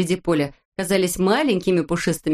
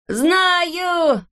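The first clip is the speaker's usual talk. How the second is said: triumphant shout; 11 semitones higher than usual. A narrator's reading. Neznaika shouting to the others, high triumph. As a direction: burst out with the answer. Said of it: "закричал вдруг Незнайка".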